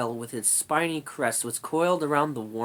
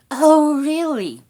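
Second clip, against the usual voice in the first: indignant squeaky rat; 13 semitones higher, 8 dB louder, slower than usual. Acted.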